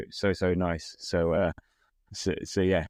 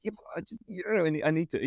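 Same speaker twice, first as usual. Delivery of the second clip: whiny mock son; 7 semitones higher, faster than usual. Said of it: "I was like".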